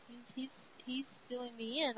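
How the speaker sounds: mock whisper. Thor overpowered in battle, whispering his defeat. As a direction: fade out like a beaten hero.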